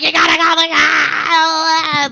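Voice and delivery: high, excited babbling in tongues; mock speaking in tongues. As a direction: mimic glossolalia, lightly hammed up. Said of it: "like, speaking in tongues".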